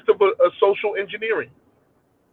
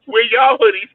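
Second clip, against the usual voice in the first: loud call; 7 semitones higher, 3 dB louder than usual. Real, not acted. Shouting question, laughing.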